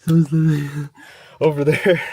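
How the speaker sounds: loud, breathless and startled; being chased. Real, not acted. Breathless after fleeing.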